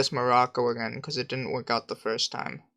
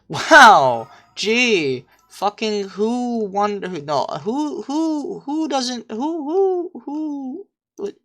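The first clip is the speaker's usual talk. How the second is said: much higher and louder, stammering in awe; excited shout; 10 semitones higher, 7 dB louder, much slower than usual. Real, not acted. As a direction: blurt out in stunned delight. Sudden surprising view appears.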